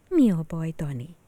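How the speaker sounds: gentle, caring question; kind teacher. Acted. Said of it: "kérdezte Hédi néni kedvesen".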